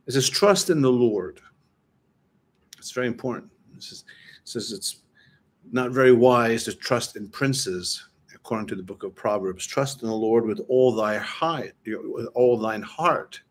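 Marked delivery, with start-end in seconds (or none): 0.3-1.4 slow, deliberate reading of scripture. Shown as a demonstration. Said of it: "I'm gonna read this very slowly to you". 9.7-13.4 measured reading, slowing on the last phrase; slow scripture reading. Shown as a demonstration. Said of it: "I'm gonna read this very slowly to you".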